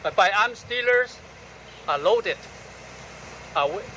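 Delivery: firm, deliberate recital in short phrases; measured poetry recital, opening words punched; poem reading. Acted. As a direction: declaim the poem line by line, with pauses. Reads own poem aloud.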